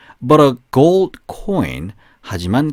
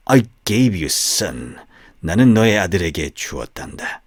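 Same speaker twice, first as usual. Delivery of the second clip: menacing snake; 7 semitones lower than usual. Acted. Snake telling the farmer he will suffer, low and whispery.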